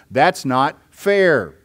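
slow protest, drawing out "fair"; lightly voiced objection, stretched out; objector's protest. Preacher restating the objection to God's mercy, slow mild protest. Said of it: "again, the objection is".

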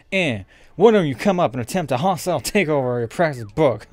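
lightly put-on cartoon villain; goofy boss voice. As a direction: toss it off as a silly boss. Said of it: "It'd be like".

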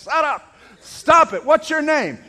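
loud, high-pitched rebuke; shouted command. Retold or imitated. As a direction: order them sharply at full voice. Acts Jesus commanding the demoniac.

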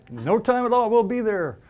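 a hint of a little ant voice; lightly voiced tiny ant leader; tiny marching ant. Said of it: "their little ant voices".

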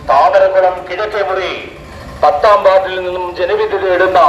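loudspeaker election announcement; booming through a roadside mic; megaphone. Real, not acted. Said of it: "mic announcement നടത്തുകയാണ്".

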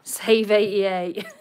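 slow showman announcement. Shown as a demonstration. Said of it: "showman voice".

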